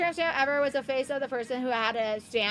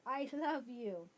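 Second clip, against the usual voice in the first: softer repeat; 3 semitones lower, 10 dB quieter, slower than usual. Real, not acted.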